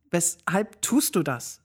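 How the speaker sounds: slow, mildly irritated question; annoyed question. Acted. Sophie asks the stranger, mildly annoyed and slow. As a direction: let a touch of annoyance slow the words. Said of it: "frag ich genervt".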